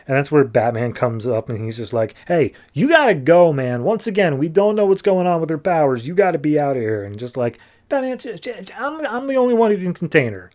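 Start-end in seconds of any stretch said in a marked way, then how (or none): 2.3-7.0 insistent, higher-pitched urging; urgent warning. Retold or imitated. Batman telling Superman to get away, urgent warning. 7.9-10.5 high, stuttering protest; flustered stammer. Retold or imitated. Superman arguing back at Batman, flustered stammer.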